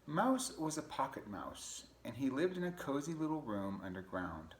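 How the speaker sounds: put-on storybook narration for children; قراءة قصة للأطفال. A narrator's reading. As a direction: read it to kids, lilting and unhurried.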